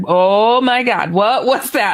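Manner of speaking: drawn-out, slow gasp of astonishment; acted-out shock, stretched slowly. Friend pops forward after seeing the being, shocked.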